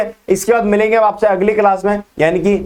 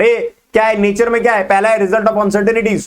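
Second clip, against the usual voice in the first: brisk teacher's recap, showing speed; quick-fire demonstration; rapid-fire. Shown as a demonstration. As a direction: rattle off the lesson point. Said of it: "मैं ऐसे बोलता हूँ फटाफट".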